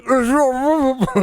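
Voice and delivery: very high, loud hammed-up British accent; British chimney sweep accent. Chimney sweeps in a commercial, shrieking British accent. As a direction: ham up a cockney sweep. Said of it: "And he's like".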